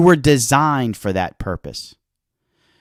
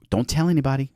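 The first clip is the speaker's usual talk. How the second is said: hushed; 6 dB quieter, much faster than usual. Shown as a demonstration.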